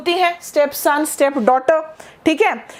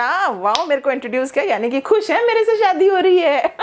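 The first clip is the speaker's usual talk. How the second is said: happy fiancée; faster than usual. Acted. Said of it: "imagined fiancée reacting happily".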